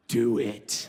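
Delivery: cocky dare. Retold or imitated. Kid daring the principal to call his dad, low smug dare. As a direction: dare him, smug and unafraid. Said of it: "kid daring principal".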